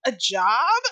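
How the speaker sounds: slow, drawn-out mock rich lady voice; badly faked posh drawl, slow; mock posh accent. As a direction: puzzle over the word job like a spoilt heiress. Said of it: "That was a terrible accent".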